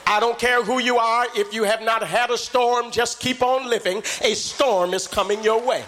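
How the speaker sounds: rising, shouted, half-sung preaching; preaching at full force. Acted. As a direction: whoop it up to the congregation. Preacher builds to whooping climax.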